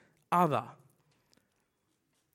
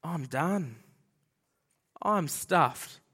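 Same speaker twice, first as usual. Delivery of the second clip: low, defeated admission; subdued and heavy, with space between phrases; resigned dismay; 4 semitones lower, much slower than usual. Acted. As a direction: voice the prophet realising he is finished. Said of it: "And his reaction is".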